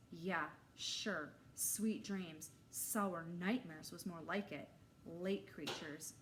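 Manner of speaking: dry sarcastic echo, slowing. Acted. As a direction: scoff at the wish. Narrator mutters sarcastically.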